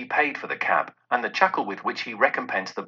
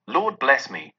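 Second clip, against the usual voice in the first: mild surprised cry. Acted. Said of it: "cried the gentleman, as if his breath were taken away".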